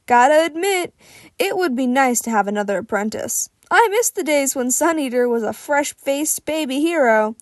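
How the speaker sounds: booming, friendly mentor; jovial big hero. Acted. Fat Gum's voice in dialogue.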